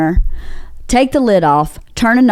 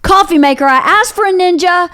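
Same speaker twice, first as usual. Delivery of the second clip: muttered rant; 6 semitones higher than usual. Retold or imitated. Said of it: "talking to myself, going".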